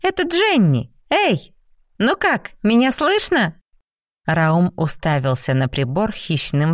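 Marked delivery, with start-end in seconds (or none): 0.0-3.5 voice through static. Acted. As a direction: call out through a noisy receiver. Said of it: "Сквозь треск и шорох прорвался женский голос".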